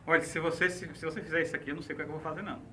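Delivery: soft, low veiled threat; quietly hint at consequences, acted; understated manipulative warning, voice dropped; emotional blackmail. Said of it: "Então, chantagem".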